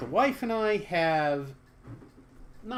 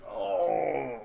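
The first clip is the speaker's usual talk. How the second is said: groan; 5 semitones higher than usual. Real, not acted. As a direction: let out a big moaning oh. Groans while playing.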